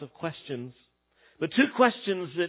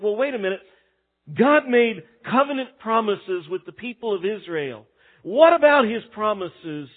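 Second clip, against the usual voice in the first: objecting; 4 dB louder than usual. Retold or imitated. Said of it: "you might think".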